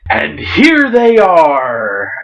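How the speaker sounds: slow, drawn-out hearty greeting from a big captain; a light touch of a booming, jovial pirate captain greeting old friends; hint of a jovial, fierce captain; jovial ferocious captain. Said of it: "a deep voice that was somehow both jovial and ferocious".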